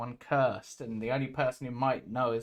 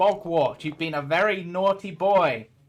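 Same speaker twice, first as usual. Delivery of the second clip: scolding parent voice, higher and louder; 5 semitones higher, 9 dB louder than usual. Voicing a character striking a creature: parental sounding voice. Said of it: "put on his best, like, parental sounding voice".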